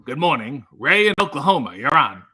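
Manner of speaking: lightly imitated radio call-in host; Larry King. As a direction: greet a caller briskly, like a talk-show host. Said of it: "I feel like Larry King".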